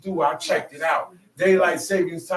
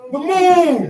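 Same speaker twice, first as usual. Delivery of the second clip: much louder and higher punchline; triumphant shout; 11 semitones higher, 10 dB louder than usual. Real, not acted. Preacher shouting the answer to his crowd.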